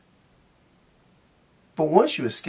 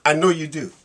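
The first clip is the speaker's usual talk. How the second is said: lightly voiced lion, mock polite; a lion sorry but firm with the girl; a hint of a regretful predator; apologetic lion; 5 semitones higher, 4 dB louder than usual. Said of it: "The lion turns to the little girl and says".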